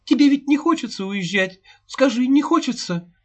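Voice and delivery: high, tearful pleading questions; sobbing. A narrator's reading. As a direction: ask through tears, begging. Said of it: "Рыдая". (сквозь рыдания, умоляюще)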